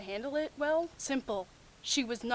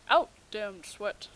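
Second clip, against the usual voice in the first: slow, mock-grand Macbeth line; Shakespearean recital; 2 semitones lower, 5 dB louder, slower than usual. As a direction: declaim it like a lightly hammed Lady Macbeth, slowly. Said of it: "Macbeth references for the win".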